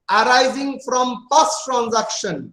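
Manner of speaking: each word spelled out slowly for notes; slow dictation. Acted. Teacher dictating a definition to students, slow and even.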